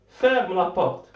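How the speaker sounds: ferme la porte, each word slow and hard as an order; slow command. Shown as a demonstration. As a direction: give the mother's order slowly. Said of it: "la mère ordonne à sa fille". (ordre de la mère, ferme la porte, lent et appuyé)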